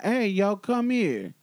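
retold curt summons; imitated summoning tone. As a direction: call them over, imitating his tone. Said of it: "Baby, that tone".

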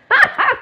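sudden high, loud laugh; real laughing fit; burst of laughter. Real, not acted. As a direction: crack up mid-sentence. Burst of laughter mid-clearing.

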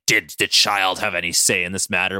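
Logan. Acted. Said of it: "And Logan's like".

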